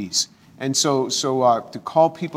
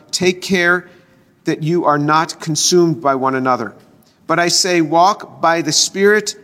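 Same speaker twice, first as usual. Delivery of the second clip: scripture reading. Acted. Pastor reading Galatians aloud to his congregation, steady and measured. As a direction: read the verses out to the congregation like a lesson.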